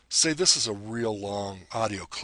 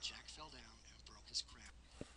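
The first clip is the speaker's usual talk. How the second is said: pitch-shifted playback; 2 semitones higher, 21 dB quieter than usual. Shown as a demonstration. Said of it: "I can raise my voice a little bit".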